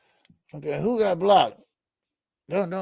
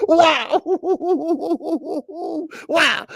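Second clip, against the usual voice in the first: louder wows broken by a shout of laughter; real laughter; 12 semitones higher, 5 dB louder than usual. Real, not acted. Streamer laughing at his own country-slang story. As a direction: crack up at the memory.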